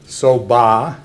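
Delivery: ba held level and flat, no rise or fall. Shown as a demonstration. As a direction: say ba on one even pitch. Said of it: "said very flat".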